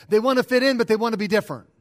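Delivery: nearly shouting out the contrast; a burst of pulpit fervour on both halves; emphatic preaching. Real, not acted. Preacher hammers home a point.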